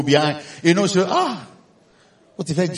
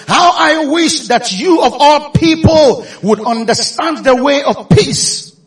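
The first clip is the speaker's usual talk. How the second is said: Jesus lamenting; 3 semitones higher, 6 dB louder, slower than usual. Acted. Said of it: "He said".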